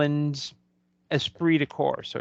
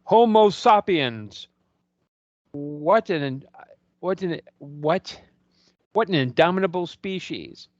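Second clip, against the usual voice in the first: big, slow, awed declamation; grand proclamation; 3 semitones higher, slower than usual. Retold or imitated. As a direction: proclaim it with arms thrown wide. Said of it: "he throws his arms up, and he says".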